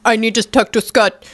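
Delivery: bad French accent. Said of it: "Oh, that, my French accent".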